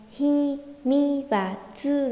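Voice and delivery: "Hi, mi và tsu" spelt out slowly, one syllable at a time; separate syllables. Shown as a demonstration. Teacher names the three letters for students, syllable by syllable. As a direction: give each of "Hi", "mi", "tsu" its own slow beat. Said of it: "Ba chữ gì đây".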